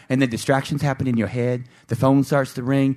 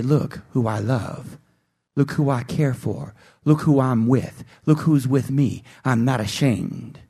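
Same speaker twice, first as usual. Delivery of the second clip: proud declaration; 3 semitones lower than usual. Pretend. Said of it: "lift you up like a beacon and say".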